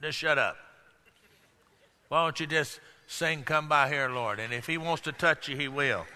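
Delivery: low, hushed mock scolding; scolding church people. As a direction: shush him like a disapproving churchgoer. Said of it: "the good church people around him told him".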